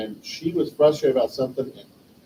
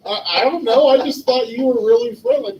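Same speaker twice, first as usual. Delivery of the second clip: laughing sheepishly; 10 semitones higher, 6 dB louder than usual. Retold or imitated.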